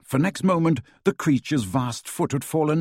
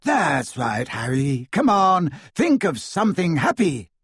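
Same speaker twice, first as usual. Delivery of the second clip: a higher, insistent pep talk; encouraging; 5 semitones higher than usual. A narrator's reading. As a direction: coax him on, lifting the pitch. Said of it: "said Luna encouragingly".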